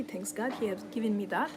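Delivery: usual speaking voice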